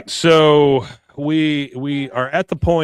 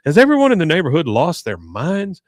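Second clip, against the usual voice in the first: mock exasperation; 4 semitones higher, 4 dB louder than usual. Acts out Hank's disbelief.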